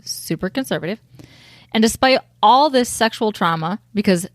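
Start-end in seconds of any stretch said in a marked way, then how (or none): 0.0-1.0 hushed aside; whispering. Real, not acted. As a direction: drop to a whisper. Whispered aside about upbringing.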